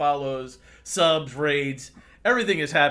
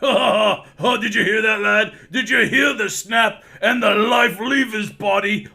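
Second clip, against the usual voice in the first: put-on higher and louder, a laughing battle-drunk boast; gloating dwarf; 6 semitones higher, 7 dB louder, slower than usual. Dwarf Copper boasting to the lad about snapping necks, loud and laughing. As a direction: crow over the kill like a rowdy dwarf.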